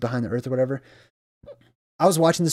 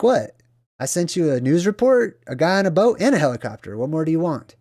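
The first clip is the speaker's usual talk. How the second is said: exasperated God; 3 semitones higher than usual. Retold or imitated. God scolds the drowned man.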